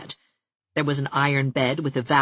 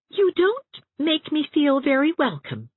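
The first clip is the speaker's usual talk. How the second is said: put-on higher, hurt girlish voice; slow and hurt; 12 semitones higher than usual. A narrator's reading. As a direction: let the hurt show, said slowly. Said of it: "Anne said slowly".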